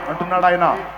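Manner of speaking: loud, climactic sermon delivery; preaching at full force. Acted. Preacher exhorts the congregation, loud and climactic. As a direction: drive it home to the crowd.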